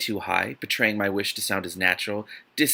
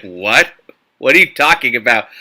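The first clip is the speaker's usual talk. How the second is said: put-on baffled boyfriend; 11 dB louder than usual. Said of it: "he's gonna be like".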